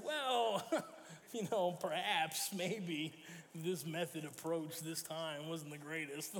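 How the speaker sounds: slow, tactful laughing hedge; a slow, laughing diplomatic dodge; diplomatic understatement. Retold or imitated. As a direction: soften the blow with a laugh. Softening her rant in translation.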